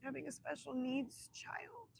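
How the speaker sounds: whisper. Real, not acted. Emotional confession to host.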